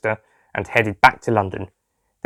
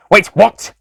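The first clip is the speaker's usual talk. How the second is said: surprised; 10 semitones higher, 7 dB louder than usual. A narrator's reading. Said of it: "the Master asked".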